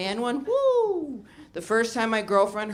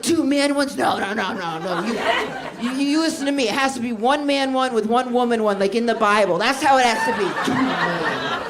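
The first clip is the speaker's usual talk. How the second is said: louder, preachy outraged senator lecturing; conservative senator; 2 semitones higher, 4 dB louder than usual. Retold or imitated. Refusing a date setup like a conservative senator from Texas, loud lecturing. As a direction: thunder it like a moralising politician. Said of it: "I sounded like a conservative senator from Texas".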